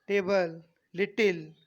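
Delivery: loud "टेबल, लिटिल" with force on each t; forceful voiceless t. Shown as a demonstration. Teacher shows students the force, loud t in "टेबल, लिटिल". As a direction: hit the t in "टेबल, लिटिल" hard. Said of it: "force लग रहा है ना".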